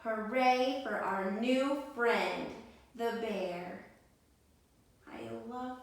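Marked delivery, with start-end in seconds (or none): 0.0-3.8 slow, louder cheering hooray; joyful group cheer. Acted. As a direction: cheer for the bear. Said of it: "and they all cheered".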